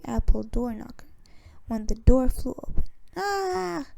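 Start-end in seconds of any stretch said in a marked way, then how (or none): 3.2-3.9 short high "Ah!" of fright; a boy's startled cry; startled yell. A narrator's reading. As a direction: jump at the door flying open. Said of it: "he yelled".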